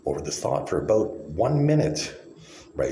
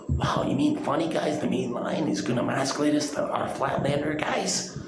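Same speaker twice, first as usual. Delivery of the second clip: mock amazement; 6 semitones higher than usual. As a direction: feign awe mockingly. Mock amazement at flat earthers.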